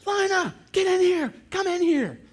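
high loud calling out; calling the dog. Retold or imitated. Wife calling the dog back inside, urgent high shout. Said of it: "fling open".

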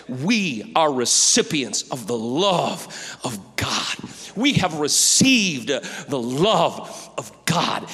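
slow, drawn-out, weighted phrases; deeply moved, deliberate proclamation; fervent preaching. Real, not acted. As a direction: preach it with awe, leaning long on each key word. Fervent, drawn-out preaching after quote.

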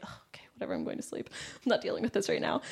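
soft, under-the-breath retold brush-off; dismissive. Retelling giving up on the roommates at bedtime, quietly dismissive. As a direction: give up on them quietly, half voiced.

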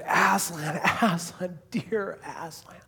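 mildly acted tender longing; Lucy. Girl finding her beloved lion, with understated tenderness. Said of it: "this really tender, beautiful scene".

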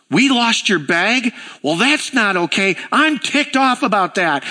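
a touch of put-on indignation; mock outrage. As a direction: play the clerk matching her anger, lightly. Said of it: "the woman at the desk goes".

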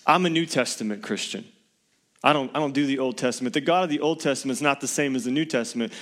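fast, lightly voiced dismissive believer; imitating a smug Christian. Preacher imitating a New Testament-only Christian, dismissive. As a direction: rattle it off like a know-it-all. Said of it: "they'll say things like".

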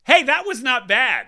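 high, loud, pleased surprise; pleasantly surprised. Real, not acted. Host reacting to own accent attempt, pleasantly surprised. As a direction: exclaim it, impressed by your own attempt.

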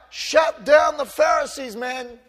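preacher voicing a pretend demand against the Pharisees, shouted; mock shout. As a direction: bark it like an impatient prayer.

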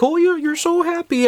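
high, sweet granny voice; grandma's high cooing; doting grandma. Retold or imitated. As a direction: coo at the grandchild. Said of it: "My grandma's all like".

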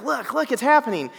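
can barely contain the thrill; excited. Retold or imitated. Husband fetches Sarah to see the smoke, giddy and high. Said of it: "And I was so excited".

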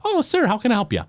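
a small forest gnome greeting a customer; high-pitched gnome shopkeeper; gnome baker. Acted. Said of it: "she says".

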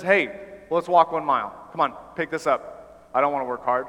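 mock-bossy Roman soldier. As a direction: boss him around like a lazy soldier. Roman soldier ordering someone around.

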